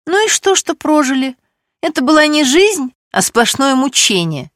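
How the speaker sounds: lightly voiced, pressing her point; heated Stesha. A narrator's reading.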